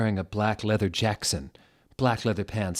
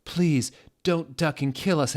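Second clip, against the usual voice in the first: mock pleading; 8 semitones higher, 4 dB louder than usual. A narrator's reading. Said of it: "they pleaded".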